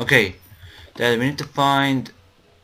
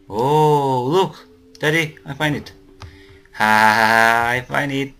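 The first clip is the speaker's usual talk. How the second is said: excited calling out; 6 dB louder than usual. Real, not acted. Player calling to daddy about the owl, excited laughing shout. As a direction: call out the win, laughing.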